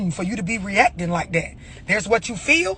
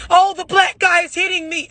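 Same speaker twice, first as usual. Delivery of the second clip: mock Karen; 7 semitones higher than usual. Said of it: "You a goddamn Karen".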